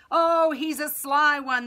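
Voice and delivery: high, loud, drawn-out jeer; crowd shouting. A narrator's reading. People answer the high priest's accusation, shouting. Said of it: "the people shouted".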